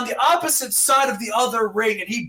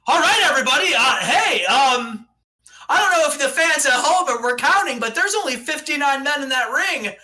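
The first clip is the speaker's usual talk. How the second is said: announcer voice; 3 semitones higher than usual. Pretend. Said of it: "He's like".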